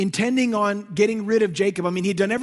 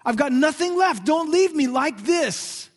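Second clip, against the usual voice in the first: pleading weeping Jacob; 4 semitones higher, 5 dB louder, slower than usual. Retold or imitated. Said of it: "He was weeping, saying".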